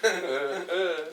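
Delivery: very slow, laughing mock girlfriend. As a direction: stretch it out, cracking up.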